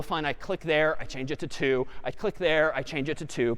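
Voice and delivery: low, subdued, repetitive run-through; dutiful repetition. Shown as a demonstration. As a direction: recite the repeated steps low and softly. Walks through a tedious repeated edit.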